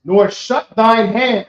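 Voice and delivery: scripture line repeated slowly for a listener who missed it. Shown as a demonstration. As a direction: repeat it slowly so he catches every word. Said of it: "Nor what?".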